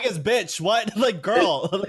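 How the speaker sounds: high-pitched mock exasperation; incredulous outburst. Player recalls sassing Igus over her choice, high and incredulous. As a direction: say it high, like scolding a friend. Retelling outburst at the game character.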